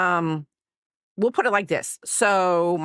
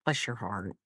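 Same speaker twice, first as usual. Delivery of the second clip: sugary fake-nice; 7 semitones lower, 8 dB quieter than usual. Shown as a demonstration. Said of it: "if they say it like I just said it".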